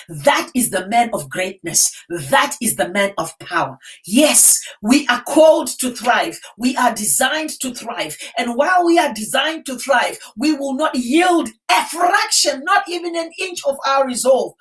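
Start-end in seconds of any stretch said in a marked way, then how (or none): 4.0-14.5 rally the crowd with conviction; roaring rallying speech. Real, not acted. Preaching to the crowd.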